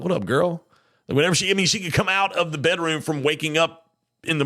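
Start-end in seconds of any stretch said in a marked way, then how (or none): 0.0-0.6 flirty catcall. Retold or imitated. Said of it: "I'm like".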